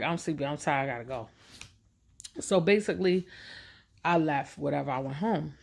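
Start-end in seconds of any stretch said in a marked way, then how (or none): 0.0-1.3 mock-tired excuse, fading softer to the end; a put-on drowsy brush-off trailing off; faking sleepy. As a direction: pretend you're worn out to get away. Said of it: "I wasn't tired, but I was like".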